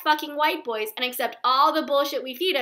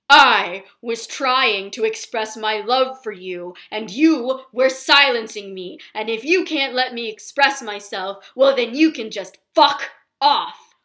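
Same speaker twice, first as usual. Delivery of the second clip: slow, louder mock-wounded boyfriend voice; imitating the boyfriend; 2 semitones lower, 4 dB louder than usual. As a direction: play him pompous and self-righteous, then snap. Boyfriend quoted mid-argument.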